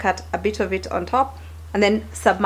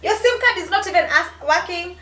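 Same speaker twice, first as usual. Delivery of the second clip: indignant; 7 semitones higher than usual. Real, not acted. Indignant rant about agent.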